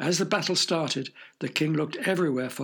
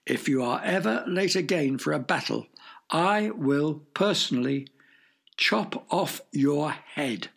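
mild mock shout. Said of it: "in a very loud voice shouted".

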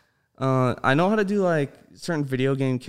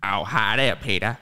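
a touch lower, mellow cartoon dad voice; retry the line a bit lower and smoother; Cleveland impression; 4 semitones lower than usual. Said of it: "Hold on".

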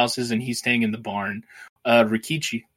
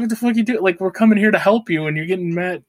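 higher, louder mock angry yelling; pissed off; 7 semitones higher, 5 dB louder than usual. Retelling Kikuchiyo scolding the frightened farmers, mock angry. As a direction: play up his fury at the cowardly farmers. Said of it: "he's pissed off at the farmers".

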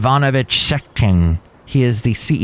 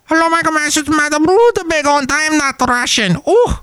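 very high, put-on falsetto lady; squeaky guest character voice, hammed-up; a shrill-ish madam greeting the host with high falsetto; high silly lady voice. Silly character guest introduces herself.

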